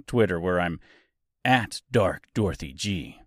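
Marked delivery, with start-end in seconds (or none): 1.4-3.2 lightly put-on dark voice; playful voice effect. Host showing off while giving his handle, lightly put-on voice. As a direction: show off a slightly darkened voice. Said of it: "See what I did there with my voice?".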